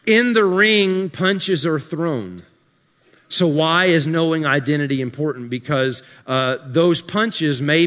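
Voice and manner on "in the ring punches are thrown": slow, weighty ring line; mock profound restated. Shown as a demonstration. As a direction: repeat it with mock gravity. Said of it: "I'm being really sarcastic".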